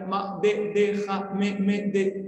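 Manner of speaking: put-on stuttering boy. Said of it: "Así tartamudeando".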